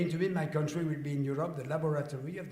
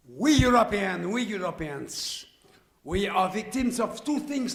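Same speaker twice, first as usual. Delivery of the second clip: proclaiming; 5 semitones higher, 11 dB louder than usual. Real, not acted. Rallying proclamation to audience.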